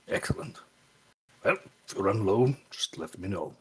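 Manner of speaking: smiling. Acted. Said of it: "just kinda smile and say".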